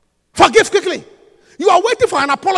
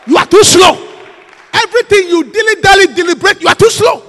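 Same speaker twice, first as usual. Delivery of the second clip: louder, rising scolding; loud rebuke; 4 semitones higher, 5 dB louder than usual. Real, not acted. Preacher scolds the procrastinating church, louder. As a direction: push it harder. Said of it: "building rebuke".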